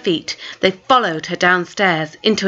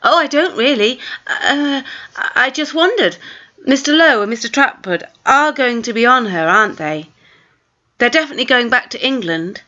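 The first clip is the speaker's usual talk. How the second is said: put-on nervous girl; 4 semitones higher than usual. Maya nervous excuses.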